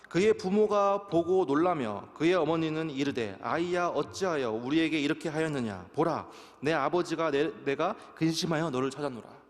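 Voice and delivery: solemn Bible reading; scripture reading. Acted. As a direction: read the verse aloud to the congregation, deliberately.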